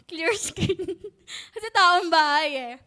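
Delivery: laughing joke. Acted. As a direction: laugh through the quip. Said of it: "joke lang yun". (tumatawang biro)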